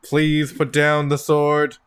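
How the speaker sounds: measured, even announcement with little pitch movement; lightly voiced warning announcer. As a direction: recite it like a standard warning. Game master voices an automated warning.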